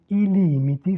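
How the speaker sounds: "i limiti" with a long, stressed LI; teacher's model, "limiti" as LEE-mee-tee; lengthened first syllable. Shown as a demonstration. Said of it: "La première syllabe porte l'accent".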